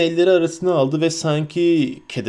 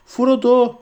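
high-pitched calling out; shrill hobbit cries; 8 semitones higher, much slower than usual. A narrator's reading. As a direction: call the name in high hobbit voices. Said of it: "tiz hobbit sesleriyle". (tiz hobbit sesiyle seslenerek)

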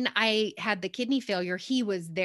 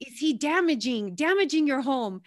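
imitated Russian accent, slightly raised; 4 semitones higher than usual. Man asking about a chewing puppy, Russian accent. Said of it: "he said in his Russian accent".

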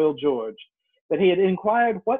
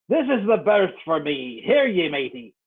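put-on gruff old sea dog. Captain voiced in story.

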